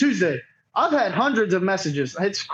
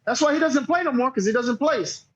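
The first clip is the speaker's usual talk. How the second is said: retold snap back; 4 semitones higher than usual. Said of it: "Finally, I kinda did snap".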